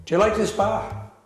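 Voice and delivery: understated, straight-faced joke telling; deadpan. Real, not acted. Beatle telling a pub joke about Jones, deadpan. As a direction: tell the whole joke evenly, giving nothing away. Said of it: "deliver this joke with absolute deadpan perfection".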